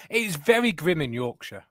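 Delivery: slow, refined Harrogate Yorkshire voice with a careful "very grim"; posh Harrogate accent. Pretend. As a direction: tone the Yorkshire accent down to a polished Harrogate one, slowly. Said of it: "That's my Harrogate accent".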